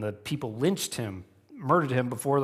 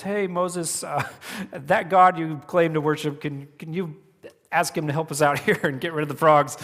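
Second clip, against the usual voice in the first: lightly voiced sheepish ruler, pitched up; hesitant, half-laughing mock request; Pharaoh; 4 semitones higher, 5 dB louder than usual. Pharaoh asking Moses for help, mock sheepish. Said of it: "bend enough to where he acknowledges".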